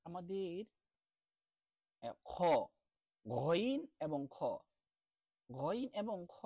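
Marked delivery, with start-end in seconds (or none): 3.2-4.4 slow stretched Arabic letter names; drawn-out Arabic letters. Shown as a demonstration. Quran teacher to students, slow throaty letter demo. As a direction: sound out গইন and খ slowly from the throat. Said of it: "উচ্চারণ করার ক্ষেত্রে".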